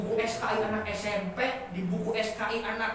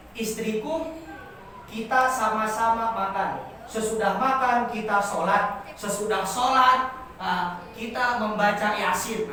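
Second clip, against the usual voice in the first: stiff formal speech. Shown as a demonstration. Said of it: "kan lucu itu".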